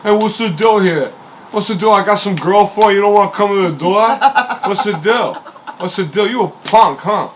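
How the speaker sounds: put-on tough-guy Brooklyn accent, pushy. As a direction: heckle the door in a Brooklyn accent. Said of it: "I just put on, like, this, like, Brooklyn accent".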